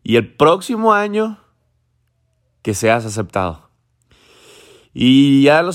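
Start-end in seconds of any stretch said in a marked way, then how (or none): 0.0-3.7 a hint of a mom urging her son on; lightly voiced mother, coaxing; mother comforting her crying son, lightly voiced, coaxing; mother's voice. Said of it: "Y le dice la mamá".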